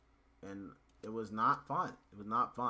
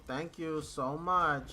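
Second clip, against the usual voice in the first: sarcastic thanks; 5 semitones higher, 3 dB louder, much slower than usual. Real, not acted.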